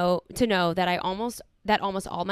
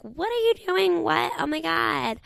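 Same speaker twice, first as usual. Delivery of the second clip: high-pitched mock outrage; scandalized, much higher than usual; acted shock; 8 semitones higher than usual. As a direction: act out an appalled reaction, voice shooting up. Acting out a shocked rejection.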